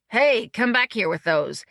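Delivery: mock yell after departing porters; imagined yell. A narrator's reading. Guest to men carrying off suitcases, imagined yell. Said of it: "managed to avoid yelling anything like".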